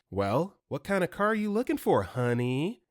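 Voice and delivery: condescending Southern salesman, honey drawn out; lightly put-on Southern accent, stretching honey; mock Southern drawl. Salesman talking down to the wife, mock Southern drawl. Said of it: "drawing out his southern dialect on the work honey".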